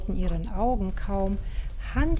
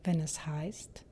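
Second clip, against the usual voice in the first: mysterious whisper; 7 dB quieter than usual. Acted. Show sign-off, mysterious title.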